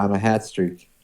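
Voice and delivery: New England accent, "hat" for hot. Shown as a demonstration. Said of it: "my New England accent".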